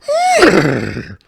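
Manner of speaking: a loud, high, hoarse cough meant as an ox; mock ox bellow. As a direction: cough it out like a bad animal impression. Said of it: "Healthy as an ox".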